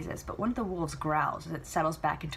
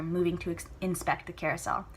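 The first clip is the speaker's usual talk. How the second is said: plain reading voice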